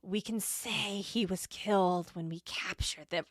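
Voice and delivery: light ancient lich voice; a hint of an undead sorcerer. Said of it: "I am doing, like, the Lich voice".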